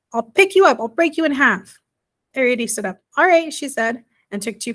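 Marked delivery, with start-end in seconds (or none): 0.1-1.8 loud threat. Acted. Giant boy threatens Arrietty. 3.2-3.5 defiant. Acted. Arrietty defiantly faces giant.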